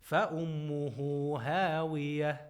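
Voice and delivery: chanted tajweed recitation, held and measured; Quran recitation. Shown as a demonstration. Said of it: "So we say".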